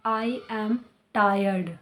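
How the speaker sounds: very slow, "tired" stretched; careful demo; slow model sentence. Shown as a demonstration. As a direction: teach it slowly. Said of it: "teacher repeats model sentence".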